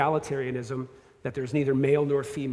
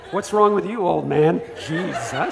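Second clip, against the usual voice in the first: mock kid attitude; 5 dB louder than usual. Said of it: "And he said it like that".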